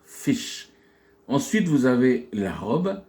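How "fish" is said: "fish" with a short, lax i; English model word "fish". Shown as a demonstration. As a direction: keep the vowel of "fish" short. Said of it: "un I court".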